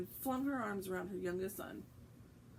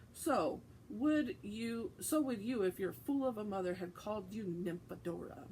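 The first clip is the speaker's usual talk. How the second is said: muttered. Acted. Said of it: "muttered Tonks".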